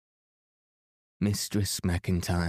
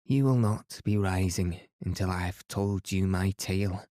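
put-on firm old Highland woman, not to be argued with. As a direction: set it down firmly, in a light Highland lilt. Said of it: "said Mistress McIntyre firmly".

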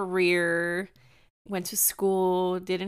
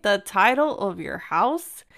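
louder, slow incredulous echo, rising at the end; retold disbelief; 5 dB louder, slower than usual. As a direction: repeat it back as a stunned question. Echoes his claim in disbelief.

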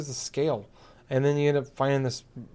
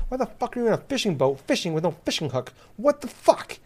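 exasperated, high-pitched disbelief; worked-up indignant questioning; mad; 7 semitones higher than usual. Real, not acted. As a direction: rant incredulously, climbing to a high outburst. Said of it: "I'm mad".

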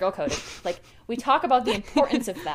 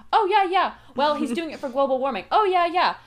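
sarcastic disbelief; 3 semitones higher, 4 dB louder than usual. Retold or imitated. Sarcastic replies to claims.

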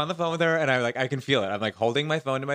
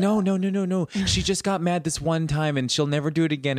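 a hint of a kid, higher and pleading; defensive kid; 4 semitones higher than usual. Eleven-year-old self defending mom, lightly voiced and higher. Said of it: "an eleven-year-old kid who's like".

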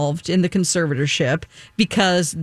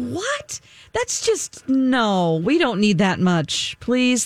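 exasperated disbelief; 5 semitones higher, slower than usual. Retold or imitated. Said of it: "I'm like".

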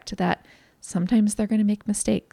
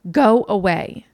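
loud mock yell, pitch barely raised; imitated child's scream; 8 dB louder, slower than usual. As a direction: bark it like an irritated child, no real scream. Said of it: "she screams at you".

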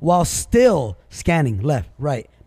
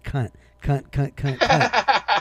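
defiant repetition; 3 semitones higher, much slower than usual. Real, not acted. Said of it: "I'm gonna keep on saying".

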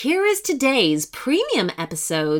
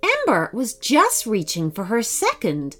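put-on children's story narration. A narrator's reading. Narrator leads children to a fairy door, storytelling. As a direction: lead young listeners into a magical tale.

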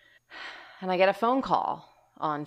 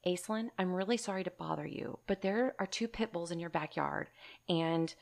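kindest voice; 2 semitones higher than usual. Retold or imitated. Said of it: "in the kindest voice".

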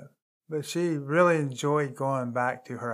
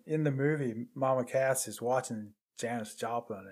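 ordinary delivery

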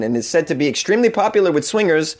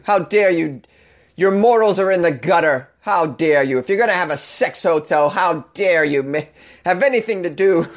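mock moral scold; 2 semitones higher than usual. Mocking scolding of sex workers.

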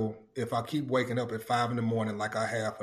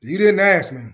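excited; 6 semitones higher, 8 dB louder than usual. Acted. Announcing the segment title.

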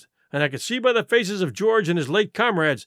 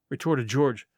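usual speaking voice

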